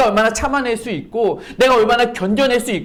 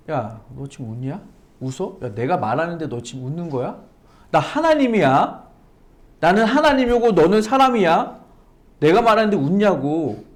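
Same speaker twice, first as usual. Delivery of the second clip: mock scolding God. Preacher voicing God scolding Sarah for laughing, mild mock rebuke. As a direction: scold her for laughing, half in jest. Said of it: "이렇게 질책하셔요?".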